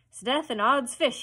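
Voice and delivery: slow, loud, high oath; thundering. A narrator's reading. Hook rallies his dogs, thundering. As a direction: thunder it out at the crew. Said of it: "he thundered".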